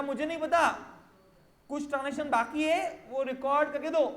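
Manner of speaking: whining client. Acted. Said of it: "रो मत".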